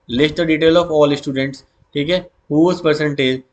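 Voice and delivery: very slow, word by word; slow dictation. Shown as a demonstration. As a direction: spell it out for students to copy. Teacher dictating.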